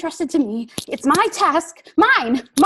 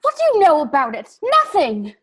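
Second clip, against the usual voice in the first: high, louder, fast outburst; lashing out; 9 semitones higher, 7 dB louder than usual. Acted. Frodo lashing out at Sam, angry. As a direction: bite back at Sam.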